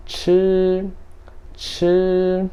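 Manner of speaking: chi high, long and level; first-tone chi. Shown as a demonstration. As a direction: hold chi on one high, steady pitch. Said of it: "Primeiro tom".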